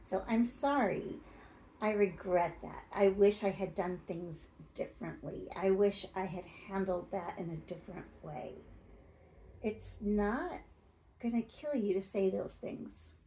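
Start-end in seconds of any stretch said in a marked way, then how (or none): 0.3-8.6 "I'm sorry" said with plain, sincere regret, no excuse after it; mean every word of the regret; sincere remorse. Shown as a demonstration. Coach shows the right apology to a partner, sincere and remorseful. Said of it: "you have to express remorse".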